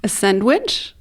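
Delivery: "sandwich" said the English way; prononciation anglaise. Shown as a demonstration. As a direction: say "A sandwich" in English, no French nasal vowel. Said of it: "bah, en anglais". (« sandwich » prononcé à l'anglaise)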